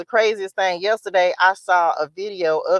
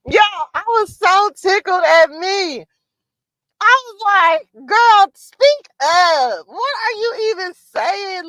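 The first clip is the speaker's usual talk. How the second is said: high, slow, loud words through laughter; laughing while talking; 10 semitones higher, 6 dB louder, slower than usual. Real, not acted. Laughing at her old self to viewers, high and loud. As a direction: talk through tears of laughter.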